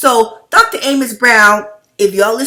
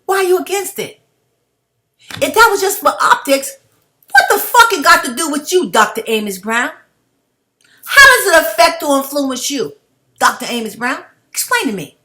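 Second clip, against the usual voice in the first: getting mad; 5 semitones higher than usual. Real, not acted. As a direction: hammer the pastor with rising anger. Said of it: "See, I'm getting mad".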